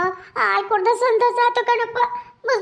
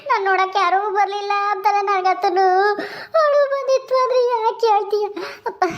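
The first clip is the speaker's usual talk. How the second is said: crying. Acted. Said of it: "ಅಳಬೇಡ, ಸುಮ್ನಿರಮ್ಮ".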